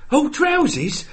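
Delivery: put-on very high parody English accent; bad English accent. Copying the mate's mock Brit, bad high English accent. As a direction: echo it in an exaggerated English accent. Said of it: "trying to do an English accent".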